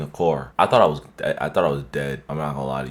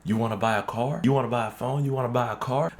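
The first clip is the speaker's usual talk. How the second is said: teasing joker; 7 semitones higher than usual. Retold or imitated. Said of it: "bro's making a joke".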